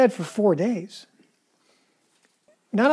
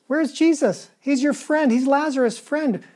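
voicing the grieving townspeople, higher and pleading; mock voices of doubt; 4 semitones higher than usual. Preacher voicing grieving townspeople, high and pleading. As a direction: ask it like the doubters crying where is Jesus.

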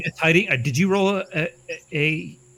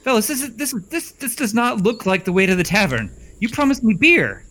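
put-on whiny young servant; 6 semitones higher than usual. Young servant complains to old man.

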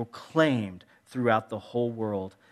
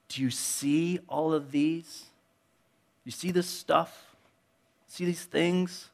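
slow pointed question; 4 semitones higher, slower than usual. Retold or imitated. Jesus slowly asking disciples to really look, knowing. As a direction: let each question sink in. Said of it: "it's the way he says it".

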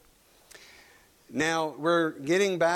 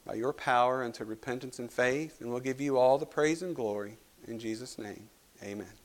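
pastoral prayer; 3 semitones lower than usual. Acted. Leads a prayer.

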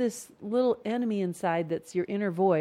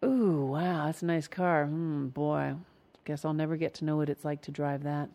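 low, soft wistful musing; hushed envy, sinking lower; sly inner voice; 5 semitones lower, 6 dB quieter than usual. Acted. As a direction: think it quietly to yourself, resigned. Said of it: "that little sly inner voice".

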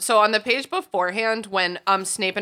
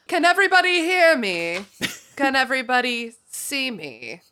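villain monologue; 6 semitones higher than usual. Acted. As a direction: proclaim it like a gloating villain. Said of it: "part two of our villain monologue".

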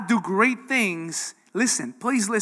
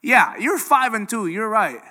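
building, louder reassurance from God; 4 dB louder than usual. Retold or imitated. God answering the doubting believer, building louder. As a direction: repeat it slower and stronger each time. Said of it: "And God would say".

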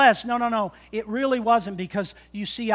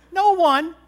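emphatic shout; 7 semitones higher, 7 dB louder than usual. Real, not acted. Emphatic punchline.

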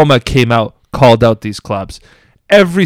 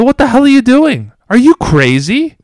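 retold angry outburst; 9 semitones higher than usual. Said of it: "called him out and said".

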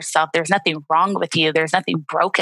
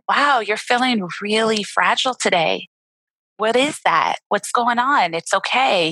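gentle self-talk; 3 semitones higher than usual. Shown as a demonstration. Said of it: "the way I kinda do it".

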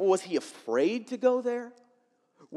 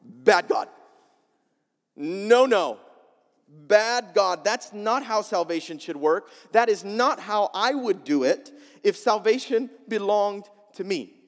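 "Bad God" said louder, like scolding a dog; mock scolding; 4 dB louder than usual. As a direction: wag a finger at God, disapproving. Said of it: "Jonah thought".

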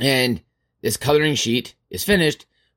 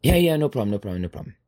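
breezy agreement; much faster than usual. Acted. Helper asked to redo the sheet, breezily fading. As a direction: brush it off, fading as you go.

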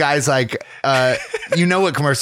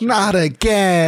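high, slow, drawn-out not again; mock lament; 7 semitones higher, much slower than usual. Friend voicing the insurance guy's lament, mock weary. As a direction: sigh it like a ruined man.

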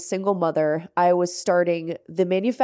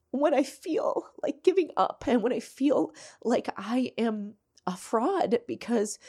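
confessing whisper; 5 semitones higher than usual. Real, not acted. Host confesses to listeners that she feels a fraud, whispered. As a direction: let the secret slip out in a hush.

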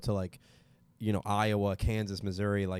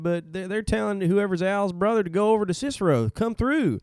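newsreader to Al; 9 semitones higher, 4 dB louder than usual. Acted. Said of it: "It's a guy reading him the news".

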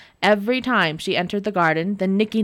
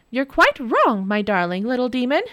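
smiling; 4 semitones higher than usual. Acted. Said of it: "Nora smiled".

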